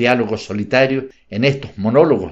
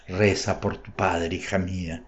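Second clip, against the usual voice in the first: very softly; 4 semitones lower, 8 dB quieter than usual. A narrator's reading. Father kisses daughter, pleads into her ear, very soft. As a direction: breathe it into her ear so nobody hears. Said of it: "le dijo bajo, muy bajito".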